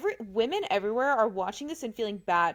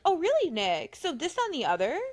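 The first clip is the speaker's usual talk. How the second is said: condescending mimicry. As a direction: sneer it like a patronizing host. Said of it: "it was all so condescending".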